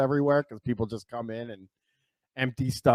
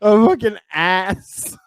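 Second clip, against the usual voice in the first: laughing; 8 semitones higher, 9 dB louder, slower than usual. Real, not acted. Cracking up at the drawing.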